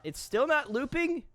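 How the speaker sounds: high, incredulous questions; you can't believe it's still broken; exasperated disbelief. Real, not acted. Streamer to the video player that won't loop, exasperated disbelief.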